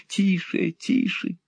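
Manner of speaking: urgent hush. A narrator's reading. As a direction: hush him, terrified of being heard. Miser hushes Ralph in fear.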